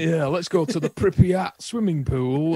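slow, cheery northern English voice; a northern English local in Pripyat; northern English accent. Retold or imitated. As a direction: chirp it like a Yorkshire local. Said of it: "northern people walking around going like".

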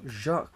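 Jacques with a French zh onset; French pronunciation. Shown as a demonstration. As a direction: pronounce Jacques as French zhahk. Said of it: "the French pronunciation of James".

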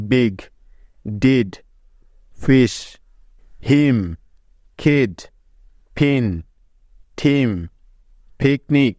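said with a short i, one word at a time; English example words. Shown as a demonstration. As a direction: read slowly as a model for students. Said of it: "যেমন". (Closed সিলেবলে ছোট ই উচ্চারণ দেখানো)

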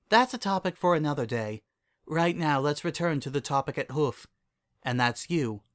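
lifted regal character voice; Celestia, composed princess. Acted.

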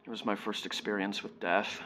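hushed, haunted recollection with long pauses; subdued grief, trailing into near silence; sombre monologue. Acted. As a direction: confess softly, leaving heavy silences. Monologue ends on grief and guilt.

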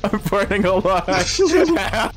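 burning scream. Pretend. Trapped in burning engine.

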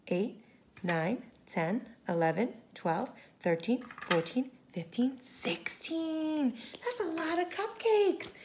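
hushed whisper. Real, not acted. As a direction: whisper the last number. Whispered count ending.

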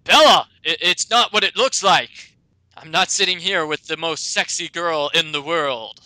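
loud, protesting excuse; flustered cheater explaining himself, loud at first; caught-out boyfriend. Acted. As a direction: blurt a hammed-up denial to the girlfriend. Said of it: "And he says".

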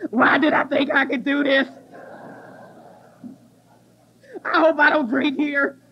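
panicked self-doubt, mildly acted; retold meltdown. Woman doubting herself after sound check, mock panic. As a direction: replay a hotel-room meltdown. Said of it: "I have a total meltdown".

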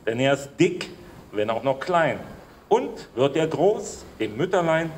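slow, measured verse with clear pauses; slow ceremonial poetry reading; poem recitation. Acted. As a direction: declaim the rhymes deliberately, line by line. Recites poem about young Siegfried.

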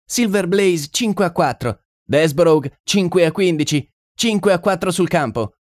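high-pitched bookmaker calling odds; bookmaker's cry. A narrator's reading. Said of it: "tuonò il bookmaker".

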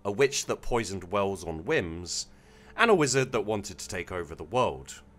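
measured, deliberate storytelling read; story narration. A narrator's reading. Streamer reading a submitted evil campaign story to chat, story narration. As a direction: read it out with phrases starting strong and falling away.

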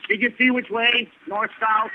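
calling out. Real, not acted. Calling to others nearby.

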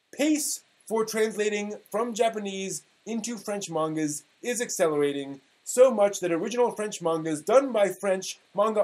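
mock-grand reading of an old forum post; dramatic reading. Podcast host reading an old anime forum post, mock-dramatic. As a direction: read it like a solemn proclamation. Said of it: "I will be giving you a dramatic reading".

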